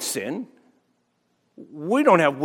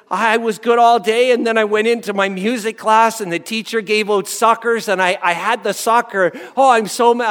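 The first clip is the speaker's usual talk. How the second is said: put-on raised, louder voice of an upset child; upset daughter; 4 semitones higher, 4 dB louder than usual. Daughter tells dad she broke her fast, upset and loud. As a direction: play the daughter fretting over a sucker. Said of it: "came home all distraught".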